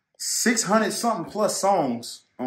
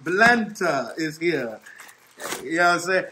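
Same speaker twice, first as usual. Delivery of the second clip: jovial; 2 semitones higher, 5 dB louder, slower than usual. Real, not acted. Jokes he is Black Santa.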